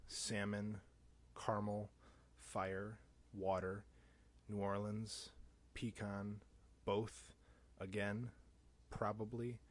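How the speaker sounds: each word spoken alone in his own Chicago accent; careful word list. Shown as a demonstration. Accent challenge on Tumblr, reading each listed word carefully. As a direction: read the list slowly and deliberately, one word at a time. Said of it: "pronounce the following words".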